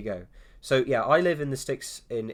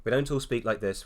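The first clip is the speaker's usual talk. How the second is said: Queen's English. Shown as a demonstration. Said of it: "I'm putting on the Queen's English".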